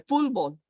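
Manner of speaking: "Fútbol" meant as "fool-bol". Acted. Imagining a listener copying it, "Fútbol" with an L. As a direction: slip an L into "Fútbol". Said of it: "I can get an L in there".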